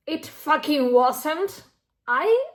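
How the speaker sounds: loud and slow, hammering the words; real emphatic insistence. Real, not acted. Reader insisting the book was no fun, loud and slow. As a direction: insist it hard.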